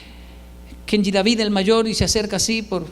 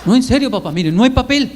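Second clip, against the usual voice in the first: loud, earnest plea to dad; hammed-up boy insisting; insistent child; 2 semitones higher, 5 dB louder than usual. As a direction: press him that you mean it, louder. Son insisting to his father.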